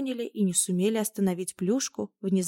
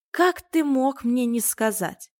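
stern scolding; 2 semitones higher, 5 dB louder than usual. Acted. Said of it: "грозно обернулась".

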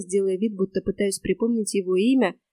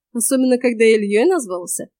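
smirking; 2 semitones higher, 5 dB louder than usual. Acted. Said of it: "хмыкнула я".

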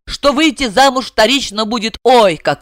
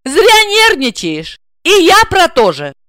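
high, slow cheeky comeback; hands-on-hips retort; 10 semitones higher, 4 dB louder than usual. A narrator's reading. Wife cheekily retorting to the boasting blonde. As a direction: taunt her back. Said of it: "подбоченившись, заявила".

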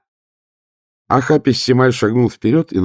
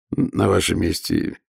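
soft and kindly; 3 dB quieter than usual. Acted. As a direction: gently talk him out of it. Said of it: "как можно доброжелательнее".

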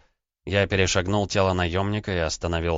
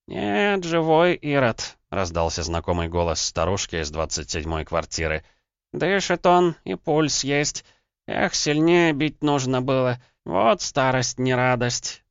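put-on much higher, slow, creaky old crone; groaning old woman; 7 semitones higher, slower than usual. Old neighbour reporting the intruder lives, groaning slowly. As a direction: grumble like a tired old babushka. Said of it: "прокряхтела она".

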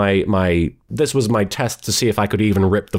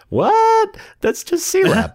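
baffled disbelief, pitched way up; incredulous; slower than usual. Retold or imitated. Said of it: "And I was like".

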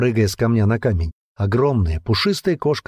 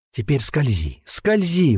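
pleading; 4 semitones higher, slower than usual. A narrator's reading. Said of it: "упрашивала она".

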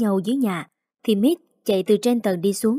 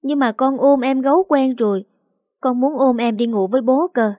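put-on a higher, lighter child's voice, pleading; little girl voice; 4 semitones higher than usual. Little girl begging to sleep with her teddy bear, higher, childlike. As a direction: play a clingy little daughter.

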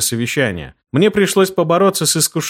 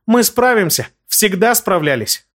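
high ringing, slowing at the end; rally everyone with a bright call; 8 semitones higher than usual. A narrator's reading. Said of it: "звенящим голосом воскликнула Тисса".

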